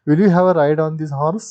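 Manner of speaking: gentle asking. Shown as a demonstration. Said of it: "He gently asked".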